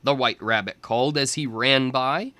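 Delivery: put-on lively storybook narration for young kids; reading to children. A narrator's reading. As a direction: read it like a teacher at story time. Reads picture book to children.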